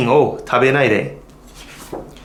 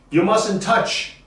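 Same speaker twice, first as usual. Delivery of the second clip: You mustn't touch, higher, mustn't stressed; higher repeat; 6 semitones higher than usual. Shown as a demonstration. Teacher repeating the rule higher for the class. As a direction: lift the second go. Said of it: "Everybody say that".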